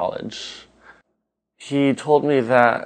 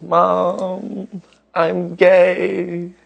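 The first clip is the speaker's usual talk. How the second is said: coming out to mom; 9 semitones higher, 5 dB louder, much slower than usual. Retold or imitated. Son comes out to mom.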